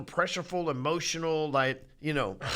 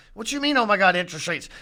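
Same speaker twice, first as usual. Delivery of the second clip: mock incredulous; 3 semitones higher, 6 dB louder than usual.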